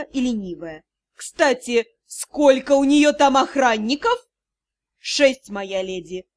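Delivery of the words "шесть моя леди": low, slow reply from a bow; bowing servant. Acted. Bowing demon answers his lady, slow and low. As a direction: answer humbly, slowly and low. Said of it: "ответил всё так же склонённый Албран".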